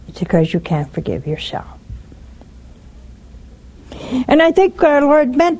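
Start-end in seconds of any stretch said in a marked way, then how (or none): 0.1-1.8 soft unvoiced confiding; gentle hushed truth; whispered. Real, not acted. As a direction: whisper it to each listener. Intimate pastoral point.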